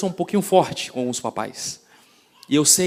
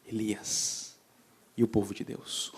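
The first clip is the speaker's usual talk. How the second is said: hushed whisper; 4 semitones lower, 8 dB quieter, slower than usual. Acted. Solemn sermon point, hushed.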